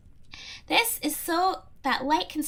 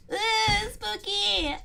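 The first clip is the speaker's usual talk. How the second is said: mock spooky ooh; 7 semitones higher, much slower than usual. Reacting to story.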